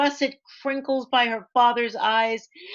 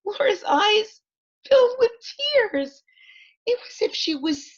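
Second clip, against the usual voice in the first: choked-up narration; 11 semitones higher than usual. A narrator's reading. Teacher reading aloud, moved as Laura hears Marian sing. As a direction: voice rising and cracking with feeling.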